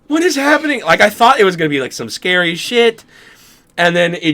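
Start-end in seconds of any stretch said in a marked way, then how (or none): 0.1-0.8 high-pitched mock bewilderment; bewildered. Dreamer retelling the odd storage room, bewildered. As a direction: squeak it out as retold confusion.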